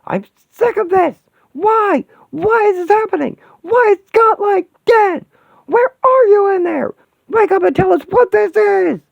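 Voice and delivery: high, loud, raging screams; furious screaming. Acted. She-Hulk screams at the broken Vision in rage. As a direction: tear into him with fury and grief.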